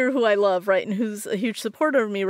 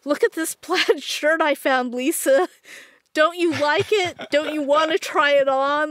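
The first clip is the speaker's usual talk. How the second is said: mock sister yelling across the store, higher; higher mock yell at a sales rack; retold scream; 7 semitones higher than usual. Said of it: "she was screaming".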